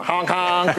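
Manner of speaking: honking sound effect; goofy honk honk; silly clown. Shown as a demonstration. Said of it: "I could just do sound effects".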